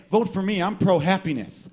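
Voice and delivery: lightly hammed-up stump promises; candidate's campaign pitch. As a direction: sell yourself to the voters. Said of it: "That's like someone saying".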